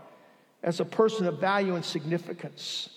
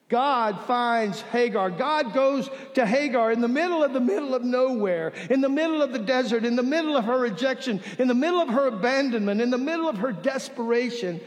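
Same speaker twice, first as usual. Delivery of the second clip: building preaching; 2 semitones higher than usual. Real, not acted.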